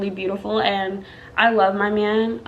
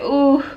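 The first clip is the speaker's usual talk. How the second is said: mild "ooh" moan, a bit higher; imitated moan; 3 semitones higher, 4 dB louder than usual. New mother showing how she handled contractions, imitated moaning. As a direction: let out a small pained moan.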